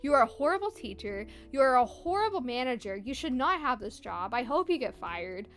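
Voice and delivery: mildly indignant, emphatic retelling; retold angry email. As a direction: read out your scolding email with a touch of anger. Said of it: "I was so mad".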